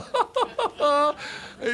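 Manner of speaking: high hammed-up Italian boss laugh; high put-on Italian laugh; hearty mock laugh. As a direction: laugh like a showy salon boss. Giorgio laughs again.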